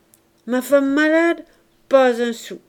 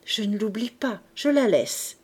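with a smile. Acted. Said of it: "répondit avec un sourire".

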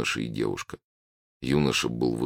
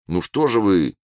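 higher, louder smiling reply; lightly amused, chiding with a smile; 5 semitones higher, 3 dB louder than usual. A narrator's reading. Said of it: "впервые улыбнулся абориген".

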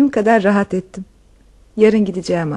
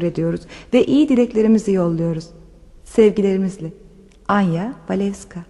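read-out letter; 2 semitones lower than usual. Acted.

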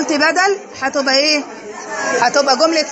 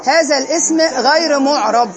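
slow dictation; slower than usual. Shown as a demonstration. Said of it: "teacher dictating answer".

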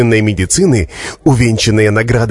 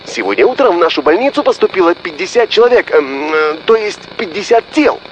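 rattling doctor; 7 semitones higher than usual. Acted. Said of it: "затараторил маленький носатый человечек".

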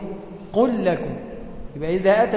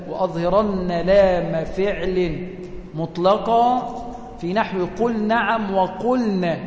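slow, measured chant of the verse; poem recitation; much slower than usual. Shown as a demonstration. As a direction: recite the line slowly, like a teaching poem. (إنشاد بيت الشعر ببطء وتأنٍّ)

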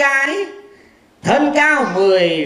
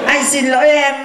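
mock loud apology; 2 semitones higher, 4 dB louder than usual. Hammy apology.

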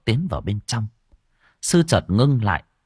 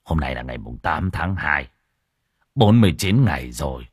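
much higher, louder frantic shout building; urgent monk's warning; 4 semitones higher, 6 dB louder than usual. Acted. Monk shouts urgent warning to hurry, much louder. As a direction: cry out the danger, faster and faster.

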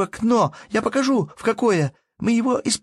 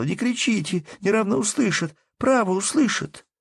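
put-on higher, urgent and eager child's speech; with great animation; 9 semitones higher than usual. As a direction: rush the news out breathlessly. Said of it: "с необыкновенным одушевлением".

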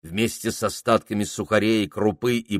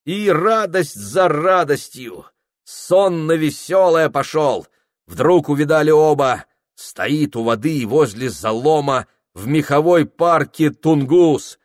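joyful narration; 6 semitones higher, 4 dB louder than usual. A narrator's reading. Narrator telling the rescuers' discovery, glad and lifted. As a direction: let the joy lift the telling.

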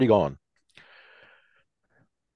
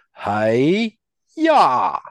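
loud kung fu kiai; karate shout; 7 semitones higher, 8 dB louder than usual. Acted. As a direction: shout it as you kick. Kicks the force field.

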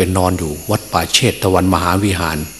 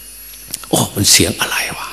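slow, breathless frightened whisper; startled whisper; much slower than usual. Retold or imitated. King jolted awake at midnight, whispering in fright. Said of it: "พญาปเสนสะดุ้ง".

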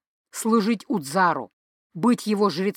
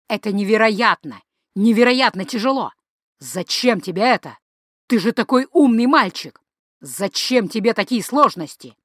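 scolding father. Acted. Father lecturing angry son.

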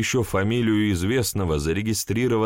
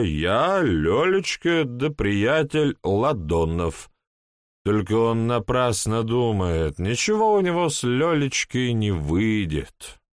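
put-on town drunk; 3 semitones higher than usual. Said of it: "полупьяный голос".

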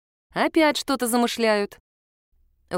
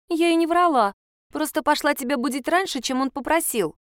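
put-on child denying; 7 semitones higher than usual. A narrator's reading.

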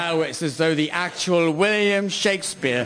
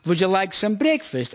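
imitating mum's war-film foreign English; mock foreign accent. Mum offering breakfast in pretend Dutch, mock foreign accent. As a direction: put on a silly foreign accent. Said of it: "English in a foreign accent".

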